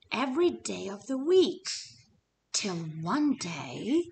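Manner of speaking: lively storybook narration, pitch rising and falling; story narration. A narrator's reading. Teacher reading a picture book to the class, lively narration. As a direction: read it aloud to little kids.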